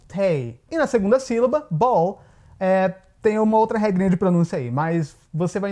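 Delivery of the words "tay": "Tay" with a long A gliding like "ay"; long vowel. Shown as a demonstration. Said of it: "vai ter o som longo". ("Tay" com A longo)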